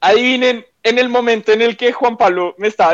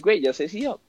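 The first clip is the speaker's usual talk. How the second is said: retold whisper; 8 dB quieter than usual. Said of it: "se le susurré a Hobbit".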